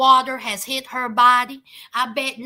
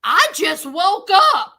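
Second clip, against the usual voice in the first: louder mock grumpy reply; retold from the throat; 2 semitones higher, 6 dB louder than usual. J K answering the door, mock throaty grumble. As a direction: push it out like a grumpy imitation. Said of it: "Then he says out his throat".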